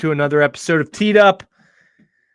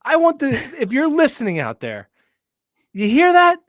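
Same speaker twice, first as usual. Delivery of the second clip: high whiny voice; whiny comedian voice; 11 semitones higher than usual. Real, not acted. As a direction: play up a whiny comic's voice. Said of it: "whiny comedian voice".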